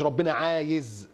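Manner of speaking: عايز drawn out long; slow quote, lingering on عايز; wrong wording example. Shown as a demonstration. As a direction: stretch عايز slowly as the phrase to avoid. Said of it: "ما تقولش".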